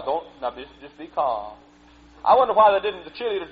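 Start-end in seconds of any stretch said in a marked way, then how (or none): 0.0-1.5 mock calm instruction. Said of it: "They teach the preacher boy".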